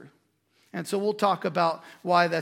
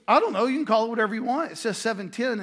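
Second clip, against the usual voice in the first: mock exasperation; 3 semitones higher, much faster than usual. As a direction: imitate a customer who's had enough. Customer retorts to baffled clerks.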